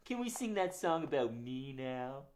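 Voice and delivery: lightly voiced sleepy rooster puppet; a hint of a shy farm rooster.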